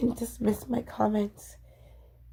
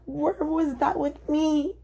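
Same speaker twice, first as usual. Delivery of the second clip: hurt plea; 4 semitones higher than usual. Real, not acted. Hurt complaint about ex.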